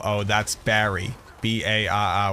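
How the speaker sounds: slow Boston spelling of Barry; Boston accent spelling. Retold or imitated. Spelling a guy's name in a Boston accent, slowly. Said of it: "put two R's next to each other".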